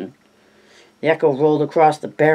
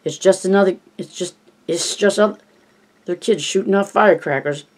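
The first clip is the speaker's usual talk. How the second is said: higher mock Chinese accent, reassuring; 5 semitones higher than usual. Richie calming Eddie in a mock Chinese accent. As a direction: keep the Chinese put-on going, higher. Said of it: "doing his Chinese coolie voice".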